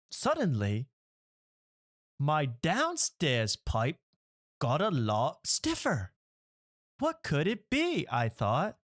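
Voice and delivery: mock British narrator, slow and grave; lightly put-on British accent. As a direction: read it like a solemn British audiobook. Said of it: "I'm putting on a British accent".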